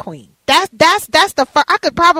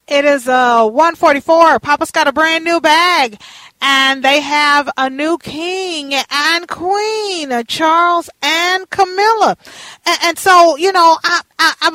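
excited; 4 semitones higher, 3 dB louder, slower than usual. Real, not acted. Host hypes royal gossip.

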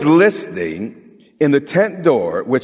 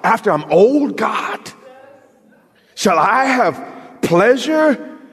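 biting tone; 8 semitones higher, slower than usual. Retold or imitated. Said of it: "There's, there's a bite in, in her tone".

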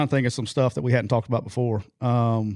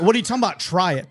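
much higher, frantic mock panic; panicked squeal; 6 semitones higher, faster than usual. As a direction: imitate a terrified man yelping at his friend. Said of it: "he was screaming like a four-year-old schoolgirl".

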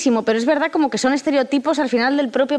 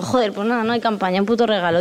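deflated grumble; 4 semitones lower than usual. Retold or imitated.

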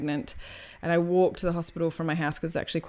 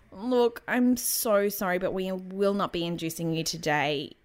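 condescending midwife. Retold or imitated. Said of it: "tilted her head and scrunched her forehead".

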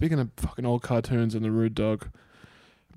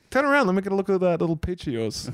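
creepy leering voice; 5 semitones higher, faster than usual. Pretend. Leering joke at friend.

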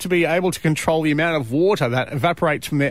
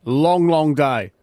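put-on old man voice; 4 semitones lower than usual. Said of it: "you sounded like an old man then".

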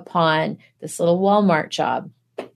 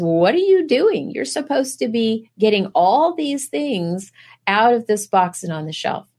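mock boss snapping higher, then settling back; scolding boss; 4 semitones higher than usual. Imitating a boss who finds the worker chatting instead of stocking. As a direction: play the boss catching her slacking. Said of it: "and says".

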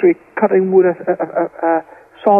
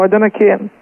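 retold line in Scots dialect; lightly voiced Scottish brother's reply; 2 semitones higher than usual. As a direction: slip briefly into Scots. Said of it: "he said in Scottish".

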